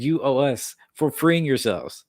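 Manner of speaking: mock France. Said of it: "They said".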